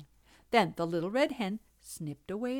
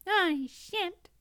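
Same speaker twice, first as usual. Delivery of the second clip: high, squeaky mouse refusal; tiny squeaky critter; 11 semitones higher than usual. Acted. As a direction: pipe it up like a small mouse.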